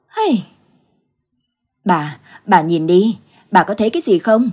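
husband begging his wife to look in the mirror; alarmed urging. Acted. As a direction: make her look, frightened.

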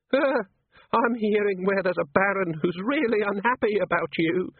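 put-on menacing drunk from the old country, slow; Uberwald bogeyman. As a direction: bogeyman leering at Angua, slow and high. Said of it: "said Schlitzen".

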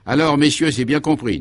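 a clear, well-pitched commanding voice; clear ringing voice. Acted. Commissaire briefing his inspectors, in a clear ringing voice. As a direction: ring out every word like a polished chief. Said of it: "d'une voix claire et bien timbrée".

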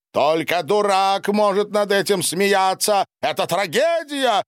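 high-pitched, impassioned exclamation; indignant outcry. A narrator's reading. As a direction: cry out in outrage at a tragedy. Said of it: "выкрикнул Борис". (возмущённый высокий выкрик)

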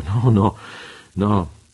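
a quick, loud, lively no; lively exclamation. A narrator's reading. The pirate, caught staring, quickly denies feeling unwell, loud and lively. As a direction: shake it off with quick, loud denials. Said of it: "esclamò vivamente il pirata".

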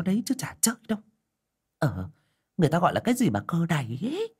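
lightly voiced village gossip, pitched a bit up; a hint of a chattering neighbour spreading rumours; gossiping villager. A narrator's reading. A neighbour who disbelieves, gossiping in a lightly voiced chattering tone. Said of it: "đồn thổi".

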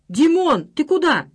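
loud, high call after him. A narrator's reading. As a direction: call him back across the bar. Friends call after Dima. (громкий оклик вслед)

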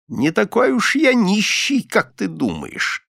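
put-on old miser croaking triumphantly at Jan. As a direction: crow it out in triumph like a spiteful old man. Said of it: "раздался каркающий голос Николаса".

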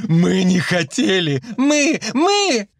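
plaintive slow wail rising to soprano; bass to plaintive soprano. A narrator's reading. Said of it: "От баса до жалобного сопрано". (жалобно, всё выше до сопрано)

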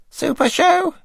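high, eager questioning voice; David Frost impression. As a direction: chirp it up brightly as Frost. Narrator voices David asking writers.

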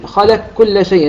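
"خلق كل شيء" with the qaf fully merged into a doubled kaf, slow; Susi full assimilation. Shown as a demonstration. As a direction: join "خلق" into "كل" as "خلكّل", no trace of the qaf. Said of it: "إدغام كامل، لام مفتوحة".

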